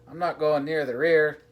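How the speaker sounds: high, loud protest; cry. A narrator's reading. Con refusing to change the baby, crying out. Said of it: "cried Captain Con".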